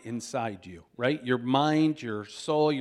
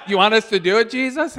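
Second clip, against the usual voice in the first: eager question; 7 semitones higher, 9 dB louder, faster than usual. Retold or imitated.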